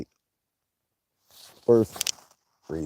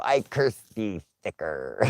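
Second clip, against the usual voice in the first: laying a curse. Pretend.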